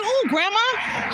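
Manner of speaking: high, slow disgusted ooh; squeamish ooh. Retold or imitated. Hearing grandma crack the chicken's neck, slow squeamish ooh. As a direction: stretch out a grossed-out ooh. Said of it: "I was like".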